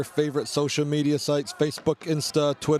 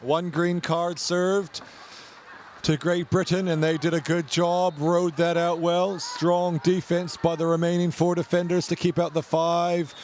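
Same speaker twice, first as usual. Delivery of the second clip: raised, lively match commentary; sports commentator calling the game; live play-by-play; 4 semitones higher than usual. Acted. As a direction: call the action as it happens. Live canoe polo commentary.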